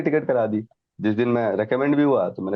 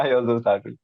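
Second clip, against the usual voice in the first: laughing; much slower than usual. Real, not acted. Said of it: "she was also started laughing".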